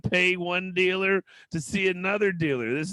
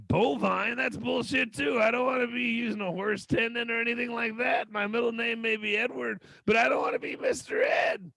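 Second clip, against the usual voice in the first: higher, scoffing refusal; indignant retort; 6 semitones higher than usual. Retold or imitated. Patient scoffing at surgeons, higher. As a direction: scoff at the horse idea. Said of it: "It was like".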